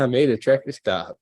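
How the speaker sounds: lightly mocking copy of his accent; imitating the trooper. Streamer mimicking the trooper's traffic stop claim, lightly mocking. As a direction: parrot the trooper with a hint of put-on voice. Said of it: "doing this voice".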